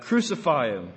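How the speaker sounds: crowd shouting. Acted. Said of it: "They shouted back".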